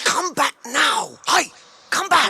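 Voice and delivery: loud, high call after someone running off; high urgent shout to a fleeing creature; shouting after him. Acted. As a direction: yell him back before he's gone. Sam shouting after fleeing Gollum.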